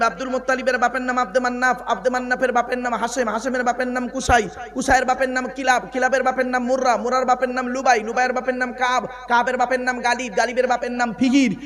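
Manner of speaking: rattled-off, even-pitched genealogy recital; lineage recitation. Acted. Preacher reciting the Prophet's lineage to the crowd, steady rhythmic recital. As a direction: recite the chain of names in one steady rhythm.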